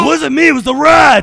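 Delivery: high, loud squeaky prisoner voice; the prisoner loudly blames the rat. Acted. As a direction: protest your innocence in a squeaky high voice.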